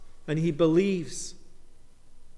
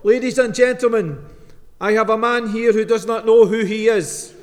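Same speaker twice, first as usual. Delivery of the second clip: tannoy announcement; 4 semitones higher, 5 dB louder than usual. Retold or imitated. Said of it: "reached for the tannoy system and said".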